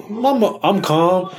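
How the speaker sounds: very slow, drawn-out I'm calm; slow, unbothered reassurance. Retold or imitated. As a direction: talk slowly to soothe the passengers. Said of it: "And I'm like".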